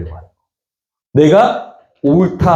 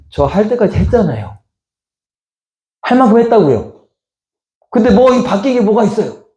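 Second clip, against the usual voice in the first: mildly indignant, higher-pitched protest; angry complaint; 5 semitones higher than usual. Acted. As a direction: act out a churchgoer fed up with getting nothing back. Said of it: "화가 나". (화나서 억울함을 따지는 말투)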